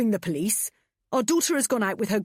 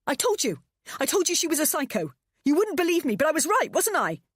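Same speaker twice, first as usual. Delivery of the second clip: high, loud, shrill-edged accusation; furious told you so; 11 semitones higher, 5 dB louder than usual. A narrator's reading. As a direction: hammer home that you were right. Frantic quarrel.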